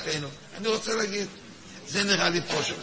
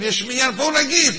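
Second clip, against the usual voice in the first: voicing the Sephardim; 7 semitones higher, 5 dB louder than usual. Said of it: "הספרדים אומרים לאשכנזים".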